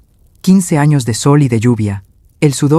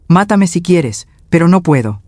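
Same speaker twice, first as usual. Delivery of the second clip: desperate plea; 4 semitones higher than usual. Acted. Broken man refusing to look.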